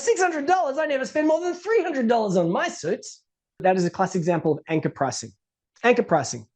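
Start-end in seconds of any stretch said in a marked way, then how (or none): 0.0-3.2 high, scoffing disbelief at the price; incredulous coworker. Retold or imitated. Coworker scoffs at the speaker's suit price, incredulous and high. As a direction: act shocked anyone paid that much.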